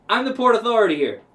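loud, fast self-important announcement; pompous official boast. Retold or imitated. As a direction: puff up like a petty official.

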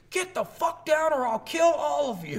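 high-pitched mock scream; imitated screaming. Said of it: "he's screaming".

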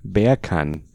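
"Bacon" in a mock Jamaican accent. Shown as a demonstration. Host showing the wordplay, Jamaican accent. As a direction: say "Bacon" like British "beer can", Jamaican-style. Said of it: "the word bacon in a Jamaican accent".

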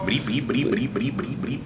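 bomb timer beeps. Pretend. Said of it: "was that sound effect".

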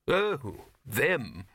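drawn out slowly; slow, hesitant bursar. A narrator's reading. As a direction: let it come out slowly, reluctant. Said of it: "said the bursar slowly".

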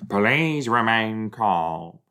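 slow, soothing robot voice; calm the humans like a kind machine; gentle care robot. Pretend. Robot speaking calmly to people.

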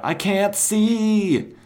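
high, loud, drawn-out cry; mock-panicked holler; retold yell. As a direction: yell it out high, stretching every word. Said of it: "he yells out".

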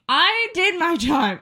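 high, laughing boast. Real, not acted. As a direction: laugh through her proud claim. Laughing pride at own tactic.

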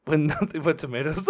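low creepy voice cracking into laughter; creepy whisper. Acted. Replaying the creepy stranger's bathtub line, low voice breaking up. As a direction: try the low creep voice, then lose it. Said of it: "and whisper".

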